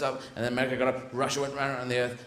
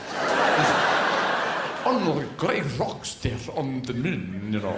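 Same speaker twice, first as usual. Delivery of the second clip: very slow, drawn-out mock Russian; badly faked Russian accent, dragged out; dubious Russian accent; 3 semitones lower, much slower than usual. Russians discussing the moon, in a shaky-authenticity Russian accent. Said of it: "I've borrowed this accent from a shop".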